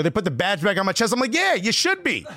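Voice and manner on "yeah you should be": higher, huffy comeback; retold retort with pitch pushed up; indignant retort. Man answers guard's apology, indignant and higher.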